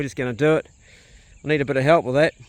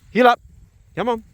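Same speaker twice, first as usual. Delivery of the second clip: loud call; 8 semitones higher, 5 dB louder than usual. Real, not acted. Calling dog to heel.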